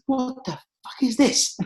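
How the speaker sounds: mock Clive staring in disbelief; stern Clive. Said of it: "he looked at me and said".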